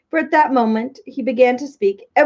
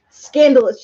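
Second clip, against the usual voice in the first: louder, higher indignant royal shout; 4 semitones higher, 6 dB louder than usual. A narrator's reading. King outraged at dinner after the banquet, shouting. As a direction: bark it out in outrage. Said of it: "shouted the king".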